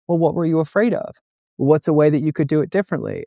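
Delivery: coaxing a child with questions, lightly acted; concerned parent. Parent asks child who was afraid to ask the teacher, lightly voiced concern.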